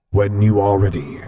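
calmly agree, repeating his words; agreeing echo. Acted. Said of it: "Vader echoed in agreement".

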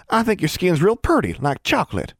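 put-on high, naive country girl; high-pitched rustic little sister; Innocence. A narrator's reading. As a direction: offer an innocent compliment as a child. Child compliments naively.

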